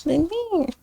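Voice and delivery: hushed, silly creature voice; Frankenstein. Pretend. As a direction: put on a small, spooky monster voice. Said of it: "It's like the Frankenstein voice".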